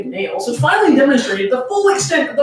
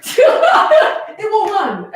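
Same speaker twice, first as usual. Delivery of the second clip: very slow, drawn-out, higher prissy voice with a laugh; Michiru's warning; 9 semitones higher, 4 dB louder, much slower than usual. Acted. Haruka quoting Michiru's makeup rule: slow prim mock warning. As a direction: stretch each word like a fussy beauty rule. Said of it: "as Michiru would put it".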